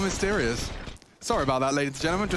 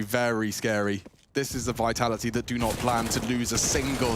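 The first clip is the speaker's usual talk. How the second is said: play-by-play commentary. Acted. Caster calling the gun round live. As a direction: call the round as it happens.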